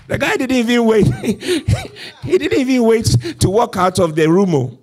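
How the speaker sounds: high, delighted laugh through the words; amused laughing. Real, not acted. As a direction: laugh in disbelief while telling it. Preacher amused by Peter walking out.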